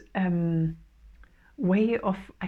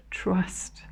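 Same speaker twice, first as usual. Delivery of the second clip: a soft breathy whisper on the single word; whispered trust; 3 dB quieter than usual. Acted. Channeling advice to viewers, whispering trust.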